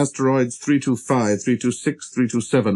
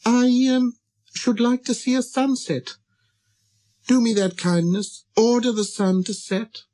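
high, hesitant, pleading small voice; little prince plucking up courage; 11 semitones higher than usual. Acted. Prince asking the king a favor, high and tentative. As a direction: request it shyly and politely, up high. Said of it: "plucked up his courage to ask".

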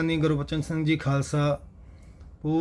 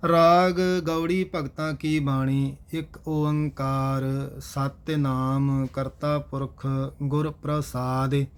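measured Gurbani chant-reading with drawn-out line endings; scripture recitation; slower than usual. Acted. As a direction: recite each verse slowly and evenly. Recites heading and invocation. (Gurbani ਦਾ ਸਹਿਜ ਪਾਠ)

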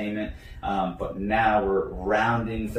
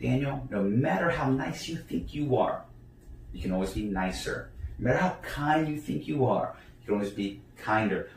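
higher, gentle self-talk; self-reminder; 3 semitones higher than usual. Retold or imitated. Speaker checking himself after the quarrel, gentle reminder. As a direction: coach yourself kindly, lifting each first half. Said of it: "Here's that little part where I say".

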